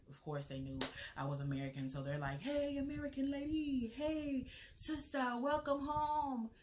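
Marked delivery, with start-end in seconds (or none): 2.4-6.5 high, sing-out Ghanaian market greeting in a put-on accent; imitated Ghanaian market ladies' accent, high and drawn out at the end; fake Ghanaian accent. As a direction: call out a welcome in a mock Ghanaian accent, pitched way up. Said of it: "my fake accent".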